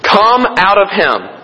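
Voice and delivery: slow, measured, stern order; slow stern rebuke, lightly acted; stern command. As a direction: command it firmly, word by word. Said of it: "He said sternly".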